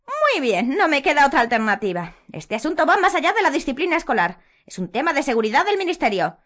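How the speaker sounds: high, loud simpering schoolmistress; Umbridge voice. A narrator's reading. Umbridge justifying herself to Harry, high and loud.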